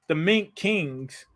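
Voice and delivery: hushed amazement, slow; awed hush. Real, not acted. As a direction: breathe The Mink Kings out slowly in awe. Repeating the name in awe.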